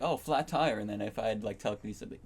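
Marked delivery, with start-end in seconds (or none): 0.0-0.8 acted-out remark. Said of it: "I would just be like".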